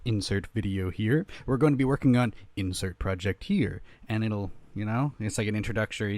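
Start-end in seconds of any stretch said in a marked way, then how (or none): 0.0-3.8 louder announcer-style intro; lively channel intro read; intro host voice. Shown as a demonstration. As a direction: run through the whole intro like a host. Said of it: "basically it goes".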